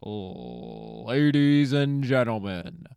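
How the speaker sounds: slow, drawn-out mock ring announcer; boxing announcer. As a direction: stretch it out like a fight-night host. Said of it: "acted like a fucking boxing announcer".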